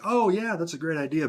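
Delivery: high-pitched "oh yeah" of realization; mock enthusiasm. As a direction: act out being struck by a good idea. Voicing reaction to someone's clever idea.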